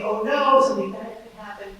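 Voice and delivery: sudden loud mock panic; panicked. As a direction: blurt it out like a scared parent. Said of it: "you panic and you think".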